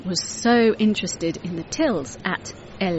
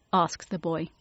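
plain reading voice

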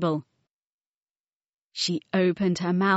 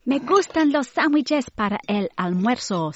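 with a grin; 5 semitones higher than usual. Acted. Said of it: "with a grin".

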